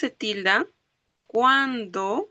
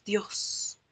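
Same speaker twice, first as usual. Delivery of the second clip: "Dios" as one single syllable; "Dios" run together in one soft beat; 8 dB quieter than usual. Shown as a demonstration. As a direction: say "Dios" softly in one stroke of the voice. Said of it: "pronunciamos en un solo golpe de voz".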